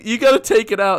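high, loud pleading order; urgent retold demand. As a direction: act out insisting in dismay. Acts out ordering his roommate.

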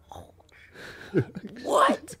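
hushed oh, then high what; laughing, high-pitched mock shock; stunned disbelief. Agent hearing the offer from recruiter, stunned.

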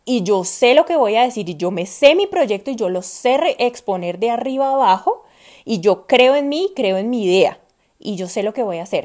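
loud, firm pep talk to yourself; confident self-talk. Retold or imitated. A woman psyching herself up to face suppliers, loud and sure. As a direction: declare it like you own the room. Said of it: "y decir".

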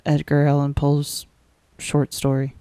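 talking out of breath; out of breath, pushing words. Real, not acted. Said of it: "I'm trying to not run out of breath".

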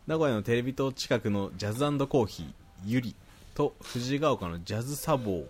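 even, articulate read-aloud; reading listener mail. Acted. Host reading a listener's praise to co-host, reading aloud. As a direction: read the letter out neatly.

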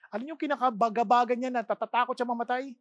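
ordinary delivery

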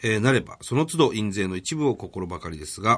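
even, measured formal read-out; reading a letter aloud. Real, not acted. Radio host reads an author's thank-you letter to co-host, formal read-out. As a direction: read the polite letter out, clause by clause.

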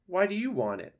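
high, loud suspicious fox; scowling fox. Acted. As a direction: demand it with a scowl. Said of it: "the fox scowled".

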